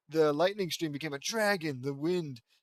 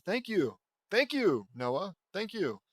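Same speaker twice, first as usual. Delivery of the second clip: gushing thanks; 5 semitones higher, slower than usual. Acted. Hero soaking up praise.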